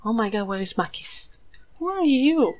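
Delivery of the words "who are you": high, loud startled question; suddenly spot a stranger; delighted surprise at a newcomer; surprised. Real, not acted. Meets a new goat.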